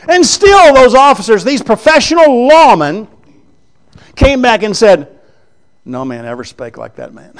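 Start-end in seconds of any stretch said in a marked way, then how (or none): 5.8-7.3 awed hush. Retold or imitated. Officers reporting back to the priests, hushed in awe. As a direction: drop to a near-whisper of wonder.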